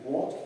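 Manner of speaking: second variant of "what", w onset with rounded vowel; pronunciation variant. Shown as a demonstration. Teacher showing students how others say it, pronunciation variant. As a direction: say "what" as "wot". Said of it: "otras pron-, personas pronuncian what".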